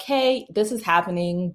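casual, no-big-deal heads-up; easygoing retold phone update; nonchalant. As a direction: report it lightly, as if unconcerned. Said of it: "my attitude was so nonchalant".

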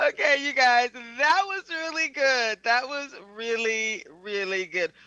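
laughing praise. Real, not acted. Director praising the roleplay, laughing.

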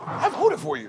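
laughing coach quote. Retold or imitated. Coach Mike Brown, laughing, answers the angry player. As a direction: laugh through the coach's line. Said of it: "He was like".

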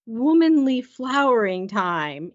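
slow, careful delicate euphemism; searching for words. Acted. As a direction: pick each word gingerly, acting it out. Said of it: "looking for the right word".

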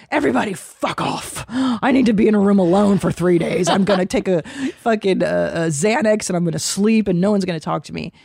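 overwhelmed mom snapping at everyone; mock meltdown. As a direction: pretend to be done with everyone. Acted meltdown after crash.

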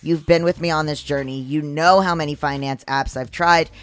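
polished, scripted podcast sponsor read; host selling the app to listeners. Acted. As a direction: deliver it as a personal endorsement with punched key words. Reads a sponsor ad.

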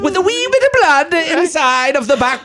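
posh British storyteller voice; mock British gentleman telling a fable; British accent. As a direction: tell it like a British gentleman on an audiobook. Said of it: "That was amazing".

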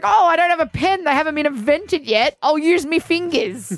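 mock ancient trader. Co-host mocks a trader at the market, lightly voiced. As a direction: play a merchant with no pen. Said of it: "he was like".

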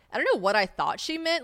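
ordinary talk

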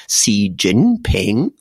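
"Xi Jinping" with rising, falling, rising tones; slow, careful Mandarin tones on "Xi Jinping"; Chinese tones. Shown as a demonstration. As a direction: demonstrate the tones on "Xi Jinping", slowly. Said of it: "a rising tone, a falling tone, and a rising tone".

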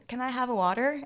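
put-on water request in an American accent. Asking locals for water, in an American accent. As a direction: ask in American English, pitch lifting. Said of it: "I just speak in American accent".

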